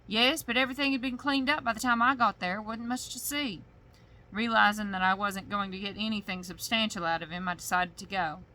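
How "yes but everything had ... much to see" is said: put-on sheriff's accent. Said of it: "my accent got all thick".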